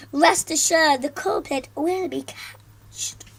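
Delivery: slow, menacing teacher vow; stern teacher. Acted. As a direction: promise it slowly and coldly.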